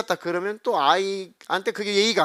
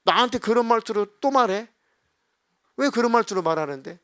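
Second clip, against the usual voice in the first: offended retort; 5 semitones higher than usual. Retold or imitated. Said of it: "말은 버리고 감정만 받아들이는 거죠".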